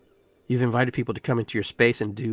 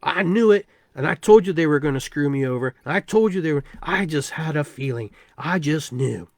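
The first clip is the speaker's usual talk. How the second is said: high, loud I-told-you-so gloating; smug told-you-so; 4 semitones higher, 5 dB louder than usual. Retold or imitated. Person who expected to be wronged, loud smug gloating. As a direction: crow about being proven right.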